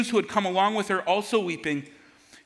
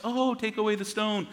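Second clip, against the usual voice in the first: casual and soft, a throwaway order; breezy, unmoved mock version; offhand; 4 dB quieter than usual. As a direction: toss it off as if nothing matters. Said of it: "It wasn't just".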